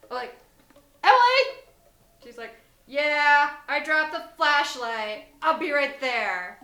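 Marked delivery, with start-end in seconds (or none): 1.0-1.6 loud, high call into the distance; yelling. Retold or imitated. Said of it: "And so I yell at her". 2.9-6.6 loud, drawn-out reply from afar; calling back. Retold or imitated. Friend calling back from the woods.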